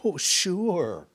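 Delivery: lightly imitated musician granting a favour; a musician. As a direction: put on an older musician's obliging yes. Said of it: "And he said".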